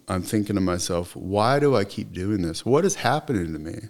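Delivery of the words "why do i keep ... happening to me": exasperated self-questioning. Retold or imitated. Man asking himself in the cop car, exasperated. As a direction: build a frustrated plea to yourself.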